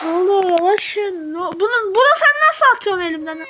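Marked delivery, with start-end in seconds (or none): 1.4-3.4 sudden fast indignant yell, higher and louder; annoyed yelling. Real, not acted. Baby throws item from his hand.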